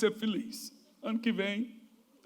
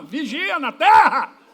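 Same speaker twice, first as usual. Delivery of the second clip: laughing shout; 6 dB louder, much slower than usual. Acted. Joking line to the congregation.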